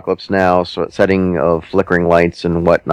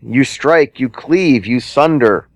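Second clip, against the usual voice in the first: epic narration; 8 semitones higher than usual. Acted.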